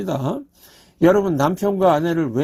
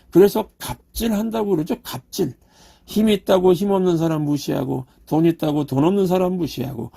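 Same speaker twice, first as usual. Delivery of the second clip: normal talking voice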